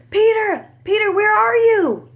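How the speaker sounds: high, loud calling out; shouting. Acted. Villagers searching the hill for Peter, loud high calling. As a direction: call out searching for him. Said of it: "they shouted".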